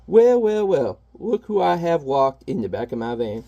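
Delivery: lightly voiced gloating villain; bad guy voice. Reading the comic's bad guy in a mild villain voice. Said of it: "He's always like".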